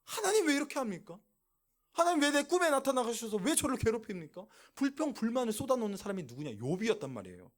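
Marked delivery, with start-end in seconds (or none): 0.1-4.4 mildly acted protest, pitched up; a touch of aggrieved questioning, higher pitched; arguing with God. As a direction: lightly voice a man's complaint to God. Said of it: "하나님에 대해서 따지는 거예요".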